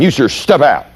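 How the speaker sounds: mildly sharp order; retold snap at the driver; irritated command. Instructor replays his irritated order to the driver. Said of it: "what voice did you hear when I snapped".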